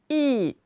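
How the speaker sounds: "hippopotame" in widely separated syllables. Shown as a demonstration. Teacher warning pupils of two O sounds, syllable by syllable. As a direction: pause after each syllable of "hippopotame". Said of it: "je l'ai prononcé deux fois".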